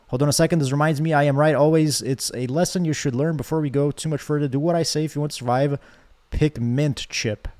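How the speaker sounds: a light, lightly voiced commanding character; hint of a domineering character voice; bossy game character. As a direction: read it as a smug bossy love interest. Reads dating sim character lines.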